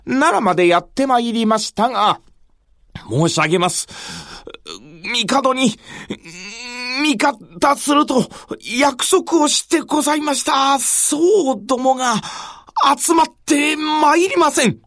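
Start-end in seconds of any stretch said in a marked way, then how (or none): 3.1-14.8 higher, anxious retainer; urgent retainer report. Acted. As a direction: deliver bad news to your lord.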